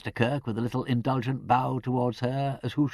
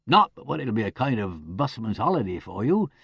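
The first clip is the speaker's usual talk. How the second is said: dubiously; 3 semitones lower than usual. Acted. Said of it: "he finished up rather dubiously".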